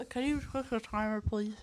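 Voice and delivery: talking around a candy; words slurred by a sweet in the mouth; mouth full. Real, not acted. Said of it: "I don't wanna talk with a candy in my mouth".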